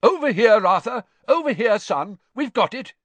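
high, loud hail across a hillside; shout. A narrator's reading. Man hailing Arthur across the hilltop, shouting. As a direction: call out to a friend a good way off. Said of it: "a shout rent the still air".

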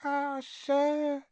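high-pitched elf sigh of regret; squeaky house elf. A narrator's reading. Winky answers Harry about Dobby, regretful squeak. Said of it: "a teeny quivering squeak of a voice".

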